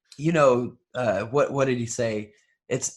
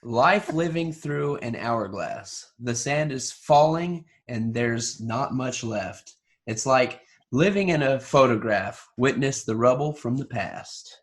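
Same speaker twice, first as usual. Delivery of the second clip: dramatic reading; 2 semitones lower than usual. Shown as a demonstration. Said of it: "like a dramatic reading".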